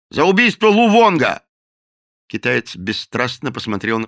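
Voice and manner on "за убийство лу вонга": loud, high accusing shout; the captain shouts a murder charge at the cook; angry shout. A narrator's reading. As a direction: hurl the charge.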